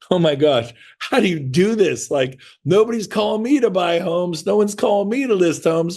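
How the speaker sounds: bewildered. Retold or imitated. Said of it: "you're kind of bewildered".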